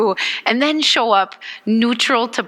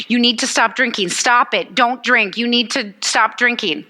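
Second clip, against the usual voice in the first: scolding relative. Pretend. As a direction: lecture a drunk uncle sternly. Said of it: "let's do this".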